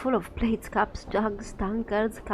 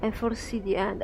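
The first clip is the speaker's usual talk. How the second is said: doom-laden proclamation; prophetess ranting. Acted. Grim prophetess ranting to the marketplace, proclaiming. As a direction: preach the end from the stage. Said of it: "She has a powerful voice".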